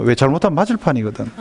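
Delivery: ordinary delivery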